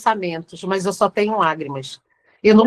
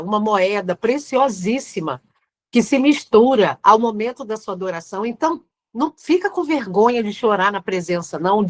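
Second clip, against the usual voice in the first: normal talking voice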